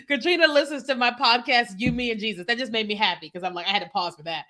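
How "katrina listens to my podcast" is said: words spilling out through a laugh; real laugh-cry, touched; laughing through tears. Real, not acted. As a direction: speak while laughing, a little choked up.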